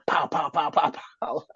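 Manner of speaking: rapid spoken gun pops; imitated gunfire. Friend mocking a shotgun with endless ammo, imitated gunfire. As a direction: fire off shotgun noises with the mouth.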